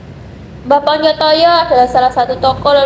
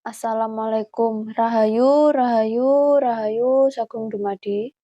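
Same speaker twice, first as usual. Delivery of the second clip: soft respectful greeting to the spirits; reverent hushed greeting; 6 dB quieter, slower than usual. Real, not acted. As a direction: murmur it with reverence, fading out.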